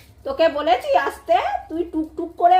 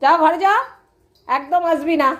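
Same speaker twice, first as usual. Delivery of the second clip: stern order; 2 semitones higher, 4 dB louder than usual. Real, not acted. Ordering the dog to its room.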